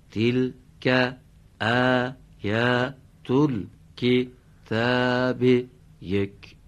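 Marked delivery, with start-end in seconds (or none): 0.1-5.4 slow, drawn-out recitation; slow Quran recitation. Shown as a demonstration. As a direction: recite it slowly, word by word. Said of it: "همین قسمت تلک رو".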